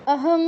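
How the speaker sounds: অহং with a nasal ng at the end; অহং closing on a back nasal. Shown as a demonstration. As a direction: say অহং and hold the final nasal. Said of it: "তার সাথে একটা অ যোগ করে দিন".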